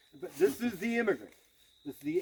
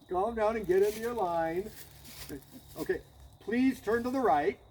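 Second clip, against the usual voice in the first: higher, coaxing colonel asking recruits nicely; mock polite officer; 4 semitones higher than usual. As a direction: play the gentle colonel begging the ranks into line. Colonel giving polite drill orders.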